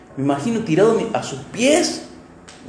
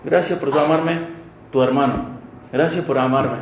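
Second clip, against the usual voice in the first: tearful humble plea; 4 dB quieter than usual. Pretend. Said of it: "llorando, diciendo".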